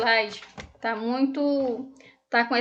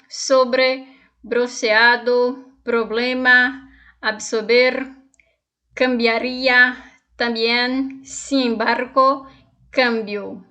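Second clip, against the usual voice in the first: slow, deliberate Spanish pronunciation drill; teacher dictating vocabulary, pausing between words; word-list reading; 4 dB louder, slower than usual. Shown as a demonstration. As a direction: read each word out separately and carefully. Reads Spanish word list aloud.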